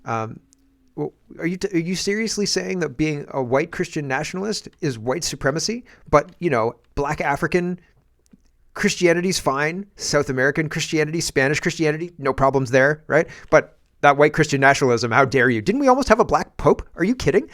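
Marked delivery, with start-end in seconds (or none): 6.1-17.5 sarcastic mockery. Mocking imitation of critics.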